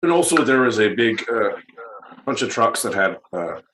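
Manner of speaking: halting mock Canadian accent. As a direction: fumble along in a put-on Canadian accent. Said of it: "in a Canadian accent".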